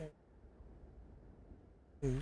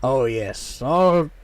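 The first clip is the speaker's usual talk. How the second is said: gravelly merchant voice. Acted. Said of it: "maybe a little bit more gravelly".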